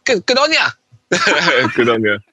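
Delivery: a hammed-up Aussie 'good on ya'; Australian accent. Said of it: "That's my Australian accent".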